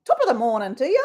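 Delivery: lightly put-on Irish lilt; Irish accent. Host showing off Irish accent to viewers. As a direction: have a go at an Irish greeting. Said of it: "very good Irish accent".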